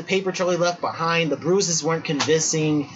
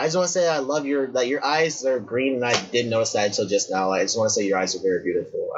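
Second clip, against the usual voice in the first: sincere compliment; 7 semitones lower than usual. Retold or imitated. Retold polite approach to woman.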